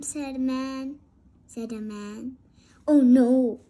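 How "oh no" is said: groan. Acted. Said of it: "groaned the king".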